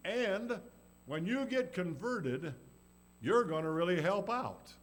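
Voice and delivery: rally him with hope; encouraging promise. Acted. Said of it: "the Lord had said".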